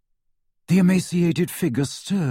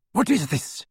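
icy, haughty lady; a chilly noblewoman at the door; cold woman's voice; 7 semitones higher than usual. A narrator's reading. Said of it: "said a woman's cold voice".

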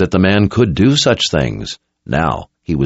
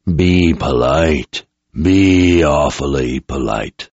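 slow, lower, menacing possessed soldier; menacing deep voice; 3 semitones lower, slower than usual. Acted. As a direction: speak slow through a borrowed mouth, menacing. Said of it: "The voice sounded too deep".

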